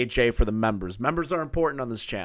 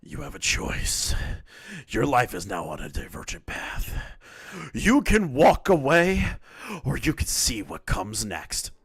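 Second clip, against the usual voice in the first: Bond villain voice; 2 semitones higher than usual. Acted. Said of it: "I'm gonna read this like a Bond villain".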